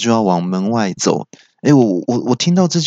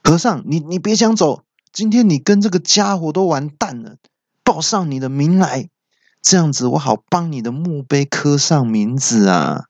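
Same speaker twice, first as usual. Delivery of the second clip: raised, high-pitched villain threat; villain's roar; 5 semitones higher than usual. Acted. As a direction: call out a menacing challenge in a higher voice. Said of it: "三哥就大吼说".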